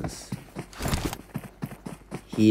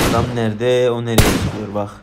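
louder excited call-out; loud excited spectator call; excited exclaim; 7 dB louder than usual. Real, not acted. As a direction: point it out loud and eager. Excited at cheater's move.

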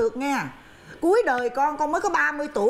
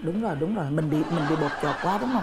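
laughing while talking; 5 semitones lower than usual. Acted. Mother chuckling over sons' mess.

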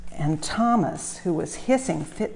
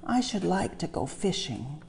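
longingly; 5 dB quieter than usual. Acted. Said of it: "he told himself longingly".

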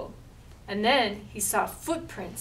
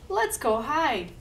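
louder urgent call; shouting; 4 semitones higher, 5 dB louder than usual. Acted. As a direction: urge them to hide. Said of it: "shouted Ghoul".

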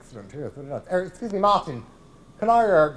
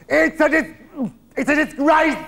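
higher, indignant complaint; outraged; 9 semitones higher, 4 dB louder than usual. Acted. Old pro complaining to the waiter about the toilets, outraged. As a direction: sound scandalised.

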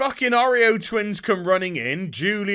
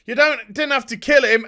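mock upset protest; 6 semitones higher, 7 dB louder than usual. Batwoman protests in retold scene.

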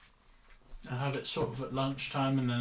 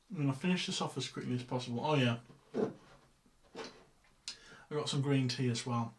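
talking with mouth open. Real, not acted. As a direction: mouth full, chewing while talking. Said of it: "I know I'm talking with my mouth open".

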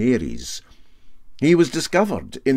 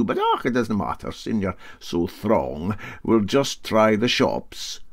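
higher, dry politeness; lightly ironic captain; 3 semitones higher than usual. Acted. Captain to quarrelling riveter, dry and ironic. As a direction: ironic wee dig at the mess.

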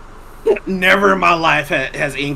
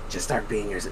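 retold whisper; 9 semitones lower, 13 dB quieter than usual. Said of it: "she kinda whispers in my ear".

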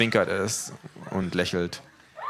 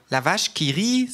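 higher, drawn-out surprise on "La vache qui rit" with rising "rit"; astonished; 11 semitones higher, 4 dB louder than usual. A narrator's reading. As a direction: say "La vache qui rit" slowly, as if struck by the likeness. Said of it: "sagt es erstaunt".

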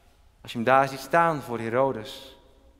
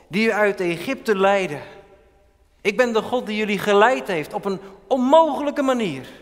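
louder, higher proclaiming voice of the Lord; voice of God; 8 semitones higher, 6 dB louder than usual. Acted. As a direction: speak as God, declaring his deeds with authority. Voices God speaking to people.

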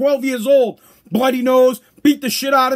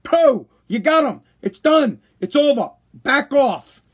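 calming a buddy; much slower than usual. Retold or imitated. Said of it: "the other cop can just go".

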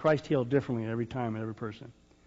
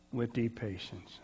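softer, slow, settling down; soft slow close; 6 dB quieter than usual. Real, not acted. Preacher finishing the scripture, softer and slow. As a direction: let the verse land gently.

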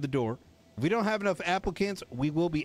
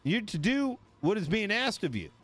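tough enforcer warning; 6 semitones higher than usual. Shown as a demonstration. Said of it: "you pull that shit out and you say".

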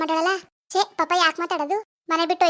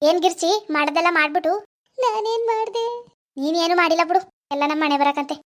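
bitter husband; 2 semitones lower than usual. Acted. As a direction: grumble about being betrayed after all you did. Husband ranting about sister-in-law. (ಕೋಪದಿಂದ ಹೆಂಡತಿಗೆ ಗೊಣಗುವ ಗಂಡನ ಧ್ವನಿ)

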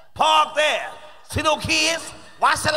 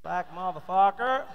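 slow stiff white guy saying it awkwardly; lightly voiced white man, slow; mock white guy; 4 semitones lower, slower than usual. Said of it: "White folks can't say".

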